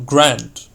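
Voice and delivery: GRAND drawn out with grandeur; GRAND said as an idea of grandeur; grand manner. Shown as a demonstration. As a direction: give the word GRAND some stateliness. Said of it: "in a manner conveying an idea of grandeur".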